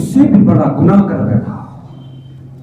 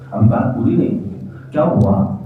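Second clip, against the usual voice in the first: much lower, softer echo; hushed plea; 13 semitones lower, 7 dB quieter than usual. Acted. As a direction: sink into shame. Repeated, low and soft. (دھیمی دہرائی ہوئی التجا)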